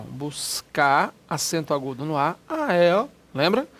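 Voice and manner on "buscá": "Buscar" ending on an open stressed A, R dropped; R removed. Shown as a demonstration. Teacher correcting the verb form, "Buscar" said without its R. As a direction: say "Buscar" as "buscá", no final R. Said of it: "retiro o R".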